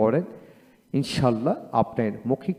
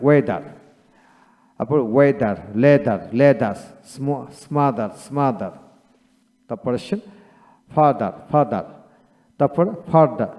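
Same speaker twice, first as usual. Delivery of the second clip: rhythmic drill; slower than usual. Shown as a demonstration. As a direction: chant the word list in a steady beat, doubling each word. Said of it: "সব কিছু ছন্দময় করে পড়ে".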